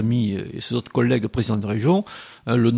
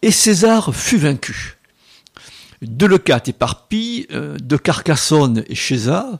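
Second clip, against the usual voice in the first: hammy stage actor. Acted. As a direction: declaim it like a classical tragedian. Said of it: "déclamer".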